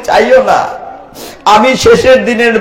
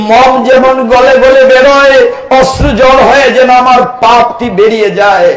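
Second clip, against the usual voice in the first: impassioned preaching. Acted. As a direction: plead with God from the pulpit.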